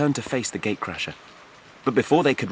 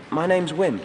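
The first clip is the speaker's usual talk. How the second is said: put-on much higher young voice, hesitant; nervous youth; 9 semitones higher than usual. A narrator's reading. Wim thanks his rescuer, high and unsure. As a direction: thank him warily.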